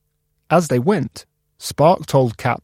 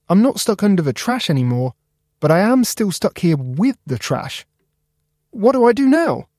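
a small voice getting more anxious; worried Cap; 7 semitones higher than usual. Acted. Cap stuck at the dump asking Spark for help.

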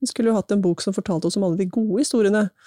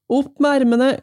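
higher, louder storybook order; bully's command; 6 semitones higher, 5 dB louder than usual. A narrator's reading. Biggest boy to Ivan, raised read-aloud command.

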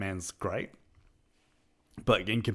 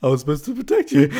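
Alfred impression; 6 semitones higher, 12 dB louder, faster than usual. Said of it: "he's like".

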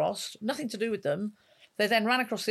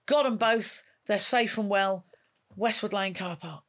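radio announcement. Retold or imitated. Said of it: "took a big gulp and went".

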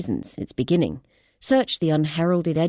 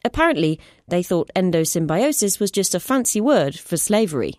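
higher, earnest explaining voice; urgent scientist; 4 semitones higher than usual. Acted. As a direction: lay out the evidence urgently. Clara explains findings.

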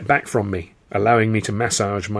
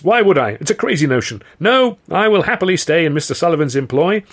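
high, loud, anxious gabble; eager, panicky appeasement; frantic babbling; 6 semitones higher, 5 dB louder than usual. A narrator's reading. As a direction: talk your way out of a beating. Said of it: "unless I could talk fast".

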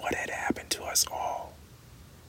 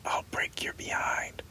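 hoarse whisper. Acted. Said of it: "he whispered hoarsely".

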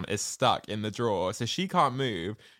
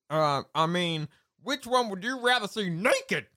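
mock boyish answer; 7 semitones higher than usual. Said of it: "She's so good".

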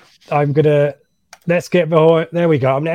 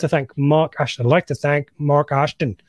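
put-on northern irish accent. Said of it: "Was that for my Northern Irish accent".

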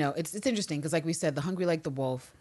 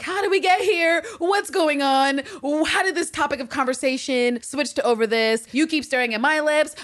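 flustered panic; 9 semitones higher, 4 dB louder than usual. Retold or imitated. Flustered Anne Walker panicking over kissing.

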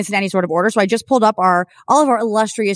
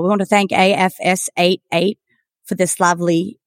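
put-on accidental Australian accent; 2 semitones lower than usual. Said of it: "I just turned Australian".

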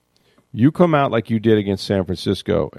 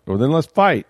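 higher, pleading mock quarterback urging his team; hammed-up plea to fight on; a touch of Brady begging his players to fight; 6 semitones higher than usual. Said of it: "he was pleading with them".

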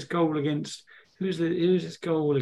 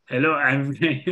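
hammed-up Scouse-French footballer accent; botched French accent from a Scouser; fake Scouse-French accent. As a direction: attempt a bad French accent over Scouse. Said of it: "fake Joey Barton Scouse, um, French accent".

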